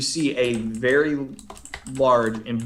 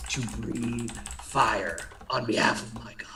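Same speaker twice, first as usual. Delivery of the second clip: whispered; 6 dB quieter than usual. Acted. Creature finishes its line.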